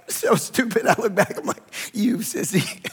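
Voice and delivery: laughing at himself through the words; self-mocking laughter. Real, not acted. Pastor looking back on crying in the bathtub, laughing self-mockery. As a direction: break up laughing at your own foolishness.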